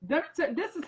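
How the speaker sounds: a real catch of tears in the voice; choked up, on the edge of crying; tearful. Real, not acted. Remembering the audition to the host, choked up.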